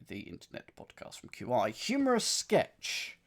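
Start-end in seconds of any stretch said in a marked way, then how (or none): 1.7-3.2 light mock Scottish reading of the clue; a touch of a Scottish accent. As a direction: slip into a hint of Scottish. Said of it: "Don't know why I've gone Scottish all of a sudden".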